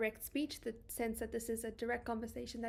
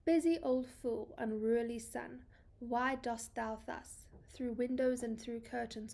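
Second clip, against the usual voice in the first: measured, deliberate reading of verse; a gently paced poetry reading; poem recitation. Acted. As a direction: read each line as poetry, letting pauses land. Reads the poem aloud.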